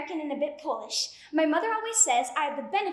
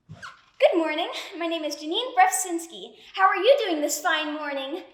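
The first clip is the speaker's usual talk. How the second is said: cheesy infomercial. Acted. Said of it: "You sound like a cheesy infomercial".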